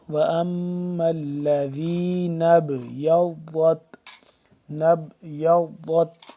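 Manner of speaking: slow chant, echoing bounce on the ب of نَبْيَضَّتْ; tajweed recitation with qalqala in نَبْيَضَّتْ. Shown as a demonstration. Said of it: "با قلقلہ ہو رہا ہے".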